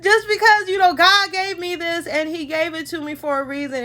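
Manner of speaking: tearful, starting high and settling; about to cry. Real, not acted. Woman tells viewers about God's gift, close to tears. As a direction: push on through welling tears. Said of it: "Y'all, I'm about to cry".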